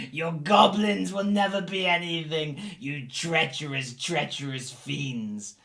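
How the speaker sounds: very slow, drawn-out denunciation; defiant prisoner. Acted. Battered human cursing goblins before collapsing, defiant but fading. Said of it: "The bloodied and battered human".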